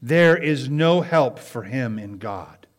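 earnest sermon delivery; preaching. Acted. Pastor preaching to his church, earnest. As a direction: preach it to the congregation.

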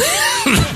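very high squeal of laughter. Real, not acted. Preacher cracking up with the crowd, high squeal.

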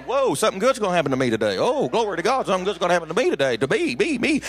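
rapid, thrilled chatter; excited crowd. Retold or imitated. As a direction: gush like a crowd catching fire.

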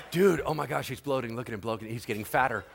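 low, softened aside among gawkers; mock-astonished commentary kept under the breath; hushed onlookers. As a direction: murmur it to a friend while watching. Onlookers gossiping as they watch.

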